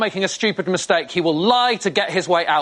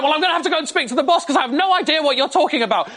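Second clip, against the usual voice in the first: high-pitched fed-up shop worker; snapping; 7 semitones higher than usual. Retold or imitated. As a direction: imitate a worker losing patience. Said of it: "She snapped and went".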